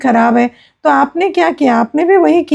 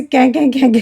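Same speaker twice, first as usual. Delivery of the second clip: crow caw imitation. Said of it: "वो जो तेज़ आवाज़ होती है ना".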